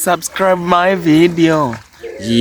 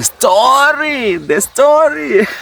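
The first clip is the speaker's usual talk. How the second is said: high, swooping hammed-up call; playful exclamation; 11 semitones higher, slower than usual. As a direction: sing it out high for fun. Hamming up the story, laughs after.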